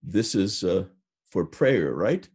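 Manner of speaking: put-on slow, heavy Russian accent on for prayer; a customs officer asking in a thick Russian accent. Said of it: "in a heavy Russian accent".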